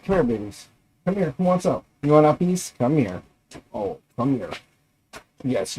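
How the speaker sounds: soft, cooing pet talk. Real, not acted. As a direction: coo to the puppies. Talking sweetly to his dogs.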